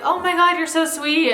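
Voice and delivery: gushing. Retold or imitated. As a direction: squeal over something adorable. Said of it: "you're like".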